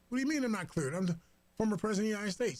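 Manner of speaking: indignant Trump. Retold or imitated. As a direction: fire it off fast like an offended ex-president. Trump indignant about his briefings.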